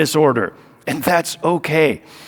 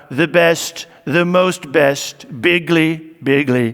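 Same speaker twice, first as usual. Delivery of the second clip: lightly drawn-out boastful Trump; mild imitation leaning on bigly; a hint of Trump bragging; Donald Trump voice; 2 semitones lower, slower than usual. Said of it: "with a Donald Trump voice".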